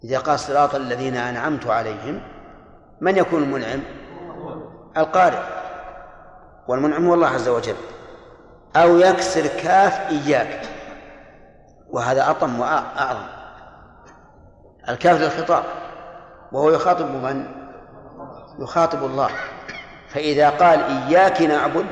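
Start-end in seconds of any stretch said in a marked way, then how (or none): 0.4-2.2 أنعمت with a u on the t, said أنعمتُ; wrong vowel demo. Shown as a demonstration. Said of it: "أن يضم تاء أنعمت". 20.8-21.9 إياك with kasra on the kaf, said إياكِ; wrong vowel demo. Shown as a demonstration. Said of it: "بدل إياك".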